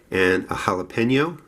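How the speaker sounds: jalapeno said as hah-leh-PEN-yo in a Jersey accent. Shown as a demonstration. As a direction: jalapeno with a nasal Jersey ny sound. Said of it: "I know I say that from my Jersey accent".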